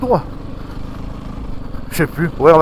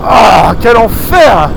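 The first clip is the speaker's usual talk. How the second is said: drawn-out shout; 5 dB louder, much slower than usual. Real, not acted. Freezing in awful weather.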